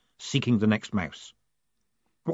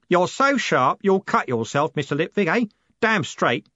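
coachman voice; 8 semitones higher than usual. A narrator's reading. Jim answering Moist, a lightly voiced coachman. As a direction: play the cheery driver.

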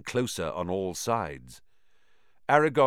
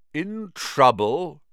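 put-on concerned old spider; 6 semitones higher, 7 dB louder, slower than usual. A narrator's reading. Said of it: "heard concern beneath the clicking".

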